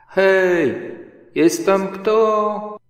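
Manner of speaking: high, loud and slow call into the hole. Acted. Pooh calling into the rabbit hole, loud and slow. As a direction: call down the burrow, drawn out. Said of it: "zaczął wołać".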